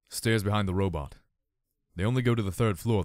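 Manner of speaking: even, unbothered reply; cool and calm. A narrator's reading. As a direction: say it coolly. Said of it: "he replied coolly".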